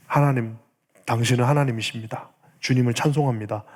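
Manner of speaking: subdued, settled acted prayer; calm prayer of praise. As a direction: end the prayer in quiet surrender to God. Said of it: "라고 하면서 그 기도가". (차분히 찬송으로 맺는 기도)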